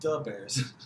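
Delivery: mock Chicago sports-fan accent. Ribbing a Chicagoan about the accent, mock Chicago accent. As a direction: put on a Chicago fan's accent.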